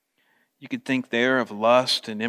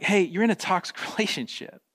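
louder and higher, pressing the point hard; urgent fatherly plea; 3 semitones higher, 4 dB louder than usual. Retold or imitated. John urging believers to break up with the world, loud and pressing. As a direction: push it like a father staging an intervention. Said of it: "John's like".

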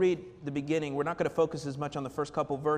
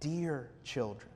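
slow, tender rendering; mildly tender, drawn out; 2 semitones lower, slower than usual. Retold or imitated. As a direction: linger gently on the endearment. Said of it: "It's a very tender term".

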